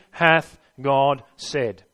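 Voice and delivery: slow, drawn-out tempter's question; sly, slow serpent asking hath God said; serpent's voice. Acted. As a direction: let the serpent slide the doubt in slowly. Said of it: "the first words that come out of his lips".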